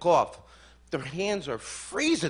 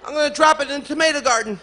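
loud, high shouting father; hammed-up shout from the yard; father yelling; 9 semitones higher, 6 dB louder than usual. Father shouts orders at his son, loud and high.

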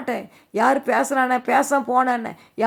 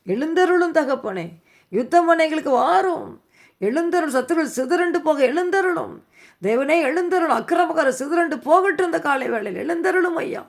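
raised-pitch pleading invocation; urgent prayer cry from the pulpit; fervent prayer; 4 semitones higher than usual. Real, not acted. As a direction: call on God, pitched high. Preacher calls on God in prayer.

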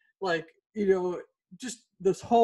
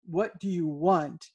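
calm slow question; slower than usual. Shown as a demonstration. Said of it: "if you just sit there and you say".

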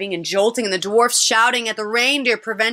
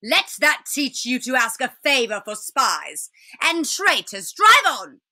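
scolding witch; 3 semitones higher than usual. Acted. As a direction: rebuke the boy, then order the sledge on. Witch scolds, then orders driver.

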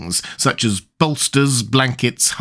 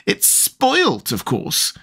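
high-pitched wail falling away; tantrum; 9 semitones higher, much slower than usual. A narrator's reading. Tweedledum grieving his rattle, high tantrum wail. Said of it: "stamp around wildly and tear his hair".

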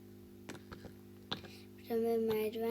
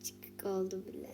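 whisper; 3 semitones lower, 5 dB quieter than usual. Real, not acted. Quiet comment during play.

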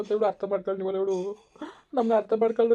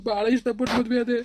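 tearful crying; 3 semitones higher than usual. Acted. Grieving husband pours out his loss to his mother-in-law, crying. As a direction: voice breaking into tears, pitch raised.

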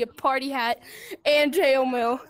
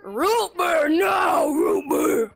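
shouting; 4 semitones higher, 4 dB louder, much slower than usual. Real, not acted. Shouted correction.

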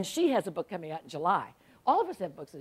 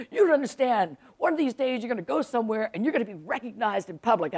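lightly imitated blustering friend; emphatic, a touch grandiose; a hint of an old bear holding forth; Pat Conroy; 3 semitones higher, faster than usual. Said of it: "That's how he sounds".

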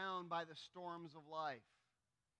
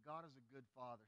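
congregation recital; 6 semitones lower, 6 dB quieter than usual. Shown as a demonstration. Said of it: "Say the words with me".

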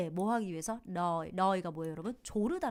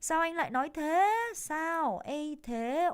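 indignant protest; 7 semitones higher, 5 dB louder, much slower than usual. Acted. Neighbour protests.

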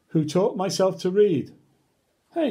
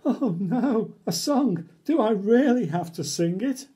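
mock dismay; 6 semitones higher than usual. Reader dreading the song.

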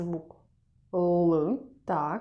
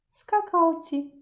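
whisper; 9 semitones higher, 3 dB louder than usual. Shown as a demonstration. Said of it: "sentence read word by word".

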